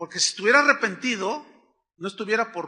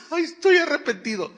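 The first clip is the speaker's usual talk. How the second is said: mock crying; 7 semitones higher, 4 dB louder than usual. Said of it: "empiezas a llorar".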